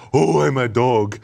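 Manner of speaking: slow, drawn-out talking dog voice. Acted. Game fan mimicking a voice-acted dog, slow talking-dog voice. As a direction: imitate a dog stretching out its words. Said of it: "like the animals they're, they're impersonating".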